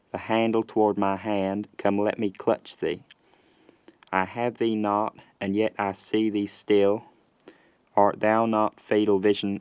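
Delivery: rural, rhotic Southern American accent. Shown as a demonstration. Lecturer reads a Shakespeare passage to compare accents, Southern US accent. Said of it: "this generic Southern U S accent".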